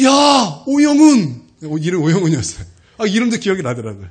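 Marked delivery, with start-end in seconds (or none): 0.0-1.4 loud, high, drawn-out shout of recognition; calling out. Retold or imitated. Former teacher spots his old pupil, calling out loudly. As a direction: call out a long-lost pupil's name.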